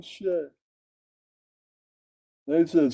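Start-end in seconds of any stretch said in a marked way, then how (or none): 0.0-0.5 high loud oh, dropping away; hammed-up surprise; mock surprise. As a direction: gasp it out in fake shock. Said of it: "Then I said".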